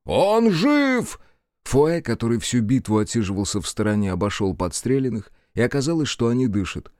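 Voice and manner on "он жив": excited cry. Acted. Relieved cry over the wounded.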